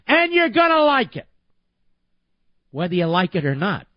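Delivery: mock Obama. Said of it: "Obama says".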